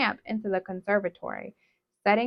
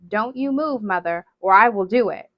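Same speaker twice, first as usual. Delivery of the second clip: loud commanding order; 6 dB louder than usual. Acted. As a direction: stand firm and command. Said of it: "in her most commanding voice".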